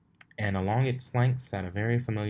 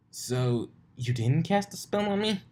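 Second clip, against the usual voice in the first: high disbelieving question; can't believe it; incredulous; 8 semitones higher than usual. Acted.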